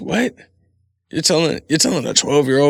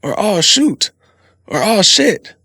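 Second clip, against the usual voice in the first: mock mild curses; 7 semitones higher, 4 dB louder, slower than usual.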